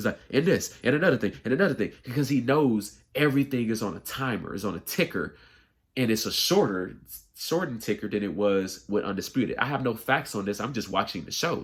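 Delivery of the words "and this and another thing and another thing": hurried, racing, rattled-off delivery. Describing how Shannon rushes when it's his turn on the show: rushed Shannon imitation. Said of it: "He's talking so so fast".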